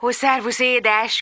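soft, tender greeting; tender, polite. Acted. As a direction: coax her sweetly. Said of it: "a leggyöngédebb, legudvariasabb hangján".

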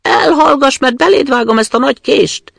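loud, high, fierce threat; hushing threat. Acted. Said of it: "intette csendre a rabló leány". (harsány, fenyegető csitítás)

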